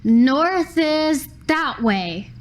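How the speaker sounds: confident bluff. Retold or imitated.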